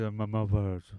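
mumbled, half-swallowed words; mumbling kid. Retold or imitated. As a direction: play a mumbling kid, lightly. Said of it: "this kid is mumbling".

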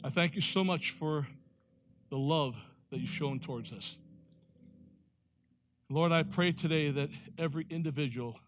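earnest pastoral prayer voice; closing prayer. Acted. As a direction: pray humbly over the congregation.

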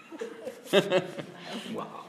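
breathy villain cackle; a hissing, breathy evil chuckle; evil laugh. Acted. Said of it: "This is my evil laugh".

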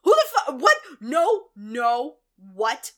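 acted yelling. Neil learning Rumpelstiltskin is here, acted alarmed yelling. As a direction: yell each question in hammed-up alarm. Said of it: "lots of yelling in this episode".

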